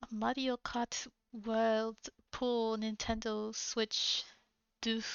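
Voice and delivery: slow, careful light French accent. Shown as a demonstration. Reading the game title for chat, slow light French accent. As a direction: announce it like a French ad, slowly. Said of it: "with a French accent".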